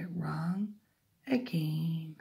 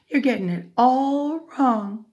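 loud, higher-pitched telling-off; scolding chickens; 6 semitones higher, 9 dB louder than usual. A narrator's reading. Chickens tell silly cockerel off, scolding. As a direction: scold him, stretching "all".

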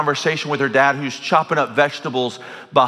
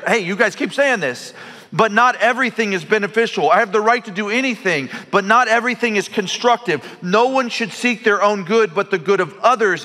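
voicing Paul; 9 semitones higher than usual. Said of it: "He goes back there".

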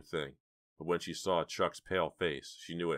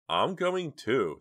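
determined; 9 semitones higher, 7 dB louder, much slower than usual. Acted. Jade insists on joining.

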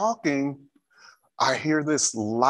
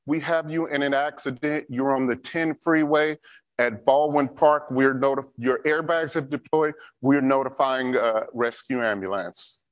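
OnStar operator. Retold or imitated. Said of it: "And then I hear".

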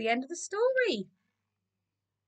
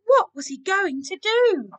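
dramatic suspense; 8 semitones higher, 4 dB louder than usual. A narrator's reading. Narrator's suspense at the threat.

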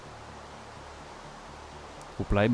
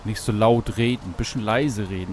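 quieter; 4 semitones lower, 5 dB quieter than usual. Shown as a demonstration. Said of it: "beim Angeln muss man ruhig sein".

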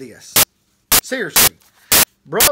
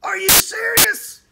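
Paul Begley impression. Minister showing how Paul Begley sounds, high and stretched. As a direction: draw it out way up high. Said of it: "You know, that's how it sounds".

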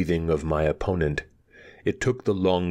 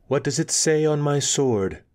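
pointed question; 9 semitones higher than usual. A narrator's reading. Narrator asks pointedly.

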